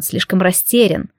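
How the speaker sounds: plain reading voice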